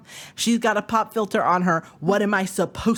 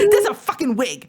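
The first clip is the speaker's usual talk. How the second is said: laughing; 4 semitones higher than usual. Real, not acted. Laughing through the punchline.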